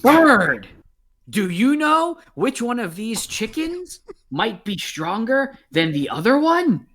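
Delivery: high eager goblin asking; excited goblin voice. Acted. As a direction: squeal it like a greedy little goblin. Goblin excited about chickens.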